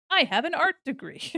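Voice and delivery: ordinary talk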